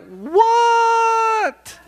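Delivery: high, startled squeak of what; baffled what. Retold or imitated. Preacher baffled as a guy passes, high startled what.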